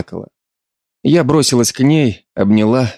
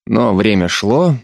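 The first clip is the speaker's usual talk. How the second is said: usual speaking voice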